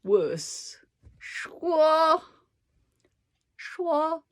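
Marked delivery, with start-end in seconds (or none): 1.2-4.2 说 high and level, almost sung; sing-song 说. Shown as a demonstration. Teacher repeating 说 after likening it to singing, sing-song. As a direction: hold 说 up on one high note. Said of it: "It's like singing".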